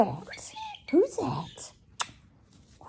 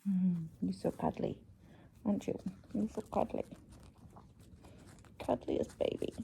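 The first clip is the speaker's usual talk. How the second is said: soft cooing; 4 semitones lower, 12 dB quieter than usual. Real, not acted. Cuddling the bird, soft talk.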